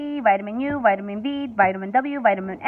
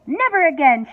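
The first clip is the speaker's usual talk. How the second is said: louder, firm shout; father shouting at his shrunken son; 4 semitones higher, 5 dB louder than usual. A narrator's reading. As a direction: slam the words down. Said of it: "shouted Mister T V".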